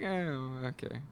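mildly deflated, soft reply; underwhelmed reaction. Retold or imitated. Viewer expecting to dislike the scene, mildly underwhelmed. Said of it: "I was expecting to be like".

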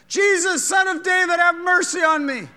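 loud, high cry for mercy. Acted. Blind beggar crying out to Jesus, loud and high. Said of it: "What do we believe?".

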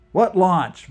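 sudden high startled question; blurted out. A narrator's reading. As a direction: blurt it out in surprise. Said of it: "Vlad blurted".

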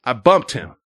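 imitating a panicky woman, high-pitched; mock her defensive babbling; frantic driver quote. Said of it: "losing it, losing her shit".

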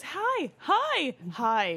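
put-on high, laughing baby-talk hi; giggly baby greeting; baby saying hi. Mom imitating the baby greeting Leah in a high voice. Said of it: "And then the baby goes".

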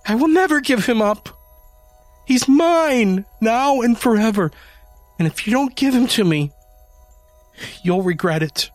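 very high, loud unhinged threat; high fierce threat. A narrator's reading. Janie threatens Adam over the kitten.

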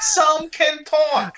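very slow, high cartoon bird; exaggerated, drawn-out creature retort. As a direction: stretch every word in a squeaky bird voice. Bird repeats it, more drawn out.

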